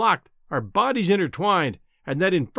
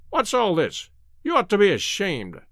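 london policeman; 3 semitones higher than usual. Acted. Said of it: "said the policeman".

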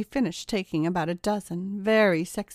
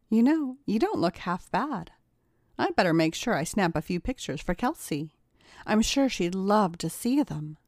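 taunting. Acted. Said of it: "taunted Kayla".

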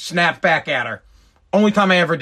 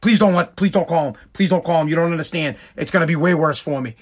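urgent, repeated pleading; retold begging; 3 semitones lower than usual. Schoolboy begging principal not to call his father, retold pleading. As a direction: plead with him, piling up the pleases. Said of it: "I'm begging Mister Norton".

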